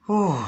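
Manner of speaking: high, falling whew; relieved whew. Real, not acted. Relief after a sad reading.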